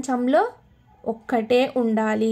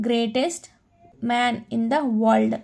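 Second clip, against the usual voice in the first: slow model reading; much slower than usual. Shown as a demonstration. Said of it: "teacher models example".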